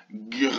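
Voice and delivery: gr alone, the R rolled on long; isolated GR sound. Shown as a demonstration. Teacher isolating the opening sound, long isolated GR. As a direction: hold gr as a drawn-out sound without a vowel. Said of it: "On entend au début".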